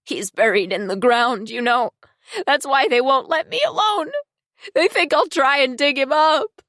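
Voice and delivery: high, raspy troubled voice. A narrator's reading. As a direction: rasp it out in a high, unsettled tone. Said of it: "Val's raspy voice saying".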